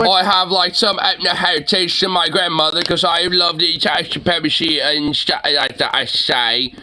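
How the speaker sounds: hammed-up, slurred British accent; mock British voice. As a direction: parody a limey accent. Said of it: "me British voice".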